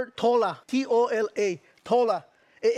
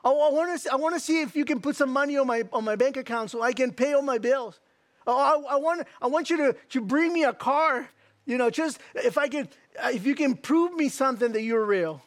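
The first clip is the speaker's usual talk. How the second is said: demanding doubter; 3 semitones higher than usual. Acted. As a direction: play a doubter insisting on proof. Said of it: "you the one who's saying".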